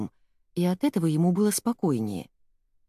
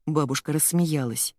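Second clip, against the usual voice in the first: ordinary delivery, nothing marked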